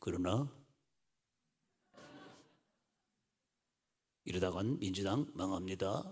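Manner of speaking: put-on, deep, hushed voice at bottom of register. Wishing a man would raise his tone, mimic how he always talks, imitating a low, deep voice. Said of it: "항상 이렇게 저음으로 푹 깔아줘".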